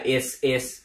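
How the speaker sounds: "is, is" as the start of expensive with only s, no k; dropped k sound. Shown as a demonstration. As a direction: leave out the k, saying just "is, is". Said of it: "không đúng nha các bạn". ("is, is" bỏ mất âm cờ)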